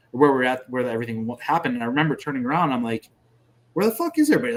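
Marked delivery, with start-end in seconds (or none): 3.7-4.5 high, loud imitated call-out; retold bewildered shout. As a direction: re-enact calling out for missing comrades. Retells his shout to comrades.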